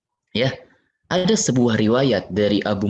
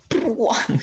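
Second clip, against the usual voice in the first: crash sound; 10 semitones higher than usual. Shown as a demonstration. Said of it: "mendobrak pintunya".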